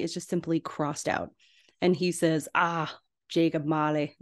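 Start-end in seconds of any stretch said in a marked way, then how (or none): 2.6-4.2 a light, half-hearted hint of Scrooge's Scottish accent; barely-there Scottish Scrooge accent. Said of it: "I won't do the, the accent the entire time".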